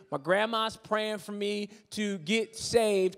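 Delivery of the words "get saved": "saved" drawn out slowly; air-quoted jargon. Acted. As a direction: stretch "saved" as if in quotation marks. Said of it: "quote unquote".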